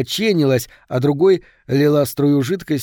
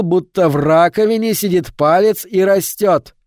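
higher, louder furious inner voice; angry scolding; 5 semitones higher, 4 dB louder than usual. Acted. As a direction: berate yourself, rising in anger. Внутренний голос отчитывает Говарда. (гневный внутренний голос)

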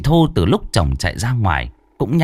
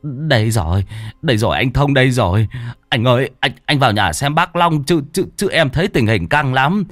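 a touch higher, stuttering villager; stammering Toàn; 5 semitones higher than usual. Acted. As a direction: stumble out the news in a rush. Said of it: "thằng Toàn Thọt lắp bắp".

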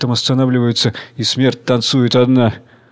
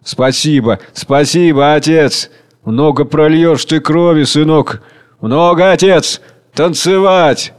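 raised, excited thanks; flushed with excitement; feverish gratitude; 2 semitones higher, 3 dB louder, slower than usual. Acted. Flushed chairman gratefully shaking Tsar Hunger's hand.

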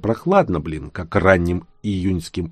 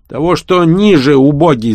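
high, loud exasperated yell; 8 semitones higher, 7 dB louder than usual. Acted. Genka losing patience with the narrator, yelling. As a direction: bellow it at the clueless helper. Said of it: "заорал он".

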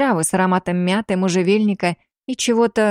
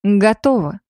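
confident. A narrator's reading. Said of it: "чтобы голос звучал уверенно".

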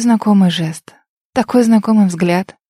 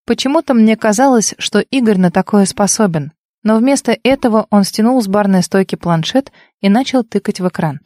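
plain reading voice

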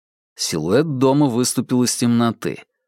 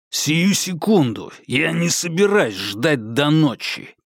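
growling; 4 semitones higher than usual. Acted. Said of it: "прорычал Конгдон".

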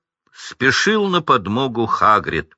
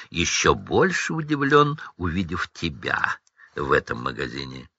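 retort; 5 semitones lower, 5 dB quieter than usual. Acted. Рон огрызается на Драко.

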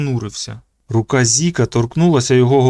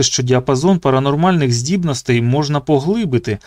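ordinary delivery

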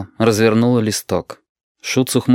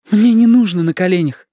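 higher, louder, cross; angry; 10 semitones higher, 5 dB louder than usual. Acted. Lidka answers Shut angrily, higher and louder. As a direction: snap back at him. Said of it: "ответила Лидка сердито".

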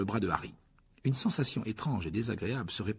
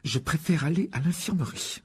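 higher, strained refusal; through gritted teeth; 6 semitones higher than usual. A narrator's reading. Harry refusing Lockhart's spell, through gritted teeth. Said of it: "les dents serrées".

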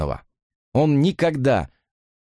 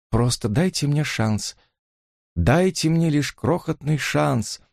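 slow, earnest pleading; 5 semitones higher, slower than usual. A narrator's reading. Susan begs Harvey for a chance, slow and pleading. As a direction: beg for one small chance. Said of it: "она умоляла".

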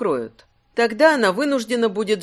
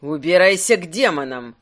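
louder, furious dismissal; angry shout; 4 semitones lower, 4 dB louder than usual. Acted. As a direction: drive the shadow away. Shouts at the shadow.

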